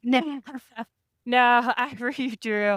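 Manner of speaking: amused, laughing through the words. Real, not acted. Rider explaining to host why they redrew, laughing. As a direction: chuckle as you tell it. Laughs over retold refusal of horse.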